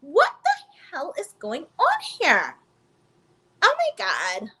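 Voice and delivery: disbelief. Retold or imitated. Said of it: "And I'm just like".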